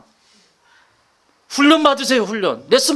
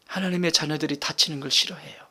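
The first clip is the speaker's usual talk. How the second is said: whisper; 7 semitones lower, 9 dB quieter than usual. Real, not acted. Tender sermon point, whispered.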